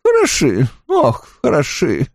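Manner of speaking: mumbled through a full mouth. Acted. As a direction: talk around a mouthful of sweets. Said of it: "пробормотала она с набитым ртом".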